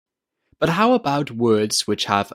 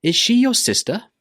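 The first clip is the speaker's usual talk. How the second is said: "Is she your sister?" high, rising at the end; rising intonation; 11 semitones higher, 3 dB louder than usual. Shown as a demonstration. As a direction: lift "sister?" at the close. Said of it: "needs to go up at the end".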